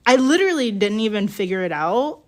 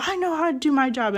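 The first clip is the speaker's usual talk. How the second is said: quicker, higher mock of the rep; mock indignant rep; 6 semitones higher, faster than usual. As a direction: rattle it off like the irritated rep. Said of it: "And she's like".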